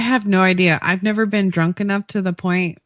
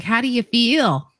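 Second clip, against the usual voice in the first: slow, higher mock-mom question; mom the morning after; 5 semitones higher, slower than usual. Mom asking her hungover kid, lightly imitated. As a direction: imitate mom's drawn-out morning check-in. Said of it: "she's like".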